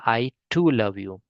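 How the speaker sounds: each word set out slowly; slow model sentence. Shown as a demonstration. Teacher slowly saying it for the class. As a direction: spell it out slowly for learners. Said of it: "हम इसको बोलेंगे".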